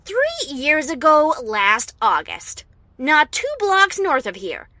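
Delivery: nail the villain with the facts; heated accusation. Acted.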